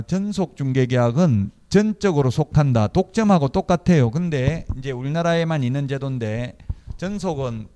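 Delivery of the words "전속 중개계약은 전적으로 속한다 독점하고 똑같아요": emphatic definition. Real, not acted. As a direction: spell out the definition firmly for the class. Lecturer stressing key definition.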